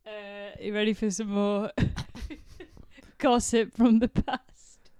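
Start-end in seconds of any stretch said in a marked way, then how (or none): 3.2-4.9 drawn-out title. Pretend. Mock segment title, drawn out.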